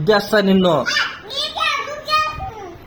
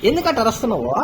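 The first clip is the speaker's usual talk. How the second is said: higher, crying question; tearful protest; 4 semitones higher than usual. Real, not acted. Child crying back at the scolding parent, tearful. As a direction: sob out the question.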